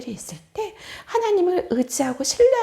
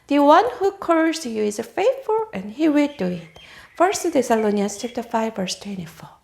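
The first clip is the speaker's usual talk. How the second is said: slow verse reading; 4 semitones lower, much slower than usual. Shown as a demonstration.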